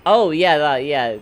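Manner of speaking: excited. Real, not acted. Sudden realisation mid-stream.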